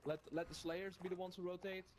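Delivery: normal talking voice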